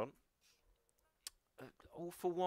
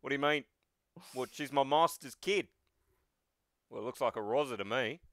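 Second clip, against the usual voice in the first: lightly swaggering Australian banter; heavy Australian accent. Acted. All Might threatening a villain's sister, heavy Australian accent. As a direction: toss it off in broad Australian. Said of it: "Heavy Australian".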